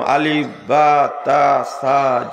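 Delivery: each letter drawn out slowly, one at a time; letters spoken slowly and deliberately; slow letter recital. Shown as a demonstration. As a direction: spell the Arabic letters slowly like a first lesson. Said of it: "আমি বললাম".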